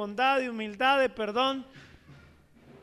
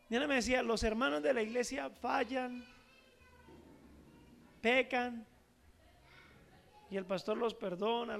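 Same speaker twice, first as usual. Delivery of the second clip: much softer, hushed storytelling; quiet telling; 6 dB quieter than usual. Acted. Pastor confiding what Diana said, hushed and soft. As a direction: drop to a near murmur. Retelling softly.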